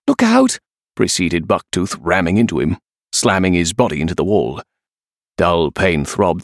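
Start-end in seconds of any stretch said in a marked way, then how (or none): 0.1-0.6 high, alarmed shout; warning cry. A narrator's reading. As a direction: cry out to warn of an attack. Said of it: "Safiri's cry of".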